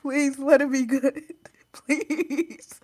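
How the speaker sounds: pleading. Real, not acted. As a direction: beg for luck. Begging for a good dice roll.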